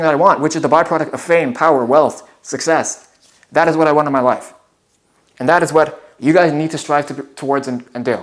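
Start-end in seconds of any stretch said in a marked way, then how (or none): 5.4-8.2 breathless, winded delivery; words pushed out short of breath. Real, not acted. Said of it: "I'm out of breath right now".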